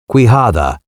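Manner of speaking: Quijada with a breathy h sound in the middle; name as Quijada. A narrator's reading. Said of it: "not Quisada, as others would have it".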